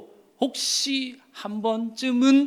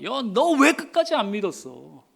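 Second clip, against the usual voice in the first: scolding; 4 semitones higher than usual. Pretend. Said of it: "라고 책망하시는구나".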